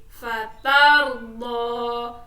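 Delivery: "fatardo" slow and loud, final vowel held; long-vowel reading. Shown as a demonstration. Teacher modelling the word for pupils, "fatardo" slow with long ending. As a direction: draw out the last vowel of "fatardo". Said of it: "wakof dibaca panjang satu".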